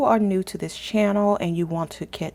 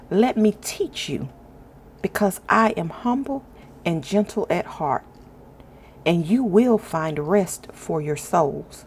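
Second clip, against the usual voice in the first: scripture reading. Acted. Host reads Matthew aloud to her viewers, reverent scripture reading. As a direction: read each verse with calm reverence, pausing between lines.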